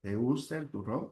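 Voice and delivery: low, soft question climbing on "turrón"; rising question tone. Shown as a demonstration. Teacher repeating the sample question, "turrón" rising. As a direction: start low and raise the pitch on "turrón". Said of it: "la inflexión de voz va a subir".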